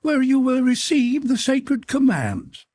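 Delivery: very high, strident monster voice; imperious snapping creature. A narrator's reading. Creature announces the girl's sacred fate to her, imperious. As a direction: proclaim it shrilly, brooking no argument.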